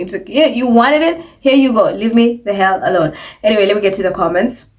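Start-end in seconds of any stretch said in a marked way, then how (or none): 0.3-3.1 imitating a fed-up dismissal; mild mock irritation, ending firmer; sarcastic brush-off. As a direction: toss it off, mock annoyed. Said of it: "That's the vibe".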